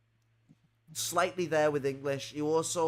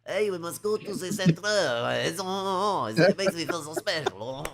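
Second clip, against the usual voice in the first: raised, louder mock-posh gushing over centre; mock posh delight; 4 semitones higher, 5 dB louder than usual. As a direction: gush like a snob who loves the spelling. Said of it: "it looks so much better when it's centre".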